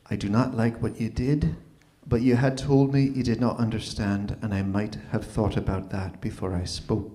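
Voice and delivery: soft, lowering voice, lightly imitated; tipsy grudging apology. Ex phones six months later after drinks, subdued half-apology. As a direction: quietly concede it, sinking at the end. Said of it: "after the influence of a few drinks".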